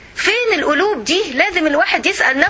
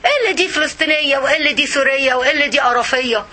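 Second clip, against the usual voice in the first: exasperated laughing rant; faster than usual. Acted. Mocking division between nationalities.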